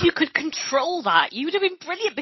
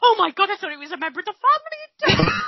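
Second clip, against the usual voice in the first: mock horror; 9 semitones higher than usual.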